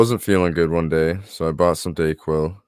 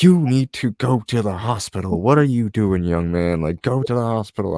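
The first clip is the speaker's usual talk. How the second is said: put-on old lady voice; 4 semitones higher than usual. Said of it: "this old lady, Mary".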